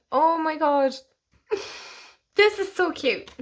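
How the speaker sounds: overjoyed by how cute it is; cooing over a cute card; gushing delight. Real, not acted.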